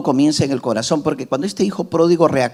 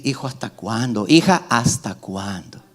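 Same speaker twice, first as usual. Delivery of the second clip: pleading God; 4 semitones lower, 3 dB quieter than usual. Retold or imitated. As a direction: ask gently like a hurting father. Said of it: "Y Dios dice". (Dios suplicando, suave y lento)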